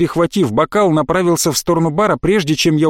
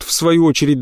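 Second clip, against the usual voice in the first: ordinary delivery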